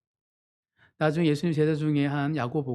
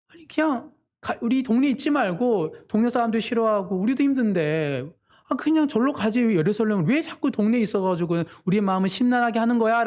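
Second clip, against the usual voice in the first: higher-pitched, fed-up complaint; acted exasperation; 6 semitones higher than usual. Brothers telling Jesus to leave their neighbourhood, acted exasperation. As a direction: act out brothers shooing someone away, pitch raised.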